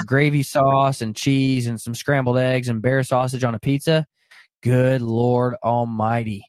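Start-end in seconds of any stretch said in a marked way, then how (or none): 4.6-6.4 slow, drawn-out, reverent exclamation; spiritual exclamation. Real, not acted. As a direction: stretch each word like solemn praise. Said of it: "I can get spiritual about that".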